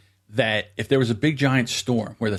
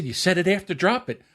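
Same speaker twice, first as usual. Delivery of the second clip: high, raised accusing voice; heated argument; 13 semitones higher than usual. Retold or imitated. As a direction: argue back hard with dad. Acted quarrel with dad.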